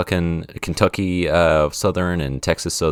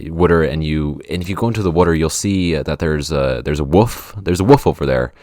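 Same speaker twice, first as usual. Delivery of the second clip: East Coast accent; 4 dB louder than usual. Shown as a demonstration. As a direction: attempt an East Coast accent, leaning on the vowels. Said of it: "a East Coast accent that way".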